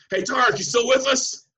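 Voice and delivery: high-pitched imitation of a yell across the plane; retold yell. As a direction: imitate a friend hollering from rows away. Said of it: "Carlin just yells, top of his lungs".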